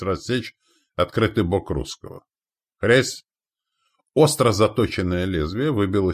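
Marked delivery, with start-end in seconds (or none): 2.8-3.2 short, louder, high crack; imitated crunch. A narrator's reading. Axe striking a shield, imitated crunch. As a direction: hit it like an axe blow.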